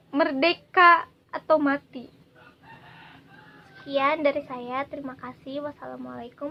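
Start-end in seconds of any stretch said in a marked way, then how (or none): 0.1-2.1 shouted battle cry; roaring rallying speech. Acted. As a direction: call it out like a rally. Poem's closing rallying cry.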